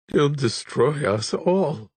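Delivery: lightly voiced despair breaking through; sobbing. A narrator's reading. Monk despairing before the abbot, a mild sob. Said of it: "he sobbed".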